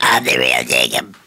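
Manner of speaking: deep voice. Acted. Each claims to be Jacob.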